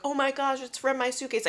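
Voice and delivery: high-pitched, flustered mock panic; retold embarrassed alarm; mortified realization. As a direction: act out an embarrassed discovery, pitch jumping up. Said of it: "I'm, like, so mortified".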